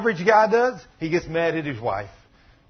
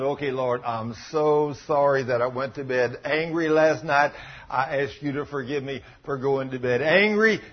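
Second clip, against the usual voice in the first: lower-pitched, acted apology; retold contrite prayer; 4 semitones lower than usual. Man asks God's forgiveness, retold contrite prayer. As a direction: confess humbly, re-enacting it.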